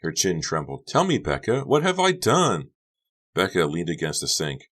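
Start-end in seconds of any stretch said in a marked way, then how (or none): 0.9-2.7 Honey tearful. Acted.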